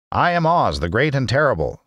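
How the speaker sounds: high, frightened little man; timid, quavering old man; trembling voice. Acted. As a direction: announce the grand title in a high, fearful voice. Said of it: "in a trembling voice".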